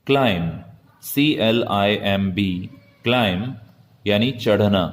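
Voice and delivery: normal talking voice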